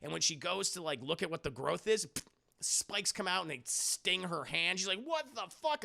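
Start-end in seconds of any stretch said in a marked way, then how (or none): 5.0-5.8 mock shock. Retold shock at spiky growth.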